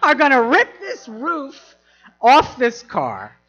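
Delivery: high, loud mock panic; hammed-up frightened plea; alarmed warning. Acted warning to date under attack.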